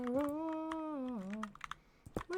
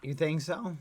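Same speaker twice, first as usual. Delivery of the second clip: deep character voice; 11 semitones lower, 5 dB louder, faster than usual. Acted. Character voice in roleplay.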